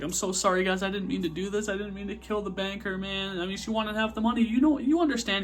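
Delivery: high-pitched frantic apology, building; acted panicked pleading. Acted panicked plea after the killing.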